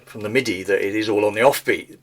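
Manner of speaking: normal talking voice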